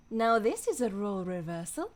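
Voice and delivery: a light take on the calm medic heroine; lightly voiced Mercy echoing the game line. Shown as a demonstration. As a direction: read it as the healer, lightly accented. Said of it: "let's bring up some Mercy voice lines".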